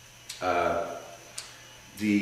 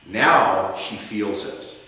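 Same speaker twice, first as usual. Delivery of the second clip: passionate closing argument. Shown as a demonstration. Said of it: "he could say something like".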